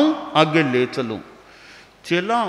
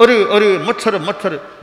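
imitating the guru's flustered yelp, louder; mock flustered cry; 3 semitones higher, 5 dB louder than usual. Disciple mimicking guru's mosquito fuss, mock cry. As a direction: tease the fuss over mosquitoes. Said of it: "यूँ आकुल व्याकुल से होने लग गए".

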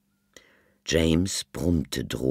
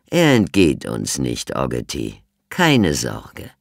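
cheerful; 3 semitones lower, 7 dB louder than usual. A narrator's reading. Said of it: "sagte er fröhlich".

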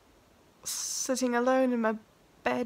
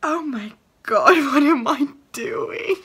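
breathy laughing whisper to herself; 3 semitones higher, 10 dB louder than usual. Real, not acted. Alone before the camera, giddy laughing whisper.

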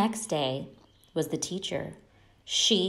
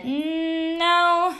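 high refusal; 10 semitones higher, 3 dB louder than usual. A narrator's reading. Stephanie refusing her mom.

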